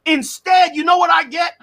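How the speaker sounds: "instead, you know what I get" pushed up and out; heated shout. Real, not acted. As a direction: raise your voice, demanding an answer. Heated debate, rising shout.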